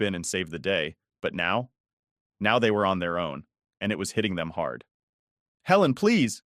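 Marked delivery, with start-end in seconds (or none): 5.6-6.4 high, louder pleading cry; desperate plea. A narrator's reading. Mom begging Helen over the phone, high desperate plea. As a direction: beg her desperately. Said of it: "My mom's voice came through the phone".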